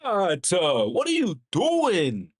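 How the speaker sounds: high, strained plea to shoot; pleading. Real, not acted. Fan begging Bridges to take his shot, high and strained. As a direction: cry out at the screen in frustration.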